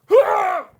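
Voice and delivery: sudden startled ooh, high and loud. Real, not acted. Floor shakes mid-sentence.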